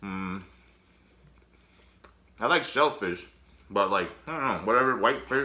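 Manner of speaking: speaking with a full mouth. Eating while talking, talking with mouth full. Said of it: "Talking with my mouth full".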